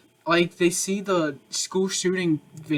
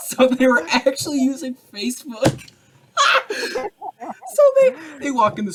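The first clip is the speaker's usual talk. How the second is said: excited telling; 10 semitones higher, 5 dB louder than usual. Real, not acted. Building up a joke, laughing.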